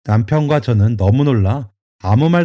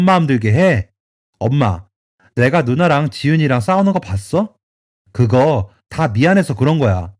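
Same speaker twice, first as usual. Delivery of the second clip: near-tearful pleading; 3 semitones higher than usual. Acted. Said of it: "거의 울듯이 사정하며".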